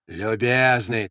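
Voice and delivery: slow, drawn-out mocking repeat; scornful echo. Sentry echoing Andres's complaint, mocking call. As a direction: echo his word back at him. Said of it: "крикнул кто-то".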